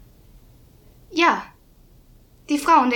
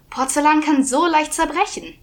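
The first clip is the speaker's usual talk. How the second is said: scolding man; 4 semitones higher, 3 dB louder than usual. Acted. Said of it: "Ein Mann sagte".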